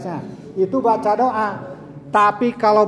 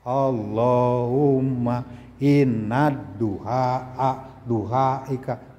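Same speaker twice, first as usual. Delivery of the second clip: low, slow, droning mock prayer; lazy prayer imitation; 6 semitones lower, 3 dB quieter, much slower than usual. Shown as a demonstration. Teacher imitates pupils praying while poking friends, low drone. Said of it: "Kan lagi berdoa ke Allah".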